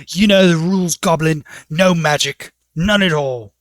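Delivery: loud, stern guard warning. Acted. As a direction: lay down the law to the goblin. Guard scolds goblin about magic.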